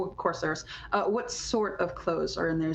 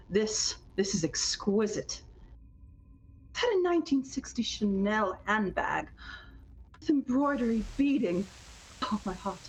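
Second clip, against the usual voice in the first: gushing fashion lover; 4 semitones higher than usual. Acted. Player voices flamboyant Ambrose.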